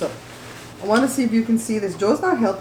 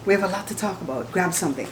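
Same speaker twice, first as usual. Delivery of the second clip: quicker, softer imitating a mukbanger; lightly mock the typical host invite; 2 semitones lower, 4 dB quieter, faster than usual. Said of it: "I love when mukbangers say that".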